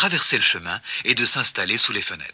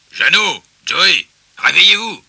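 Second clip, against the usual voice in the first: loud, raised wake-up call; 5 semitones higher, 8 dB louder than usual. A narrator's reading. Pig waking the rabbits at their hutch, crying out. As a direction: cry out to rouse sleepers. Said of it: "en ouvrit la porte et cria".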